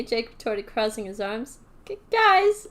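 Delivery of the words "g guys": nervous stammer. Acted. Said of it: "Elliot cut in".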